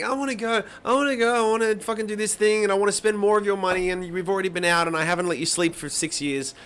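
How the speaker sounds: mocking his daughter as a spoiled brat, high whiny voice; whiny toddler. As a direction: whine it like a demanding little girl. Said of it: "she's just like".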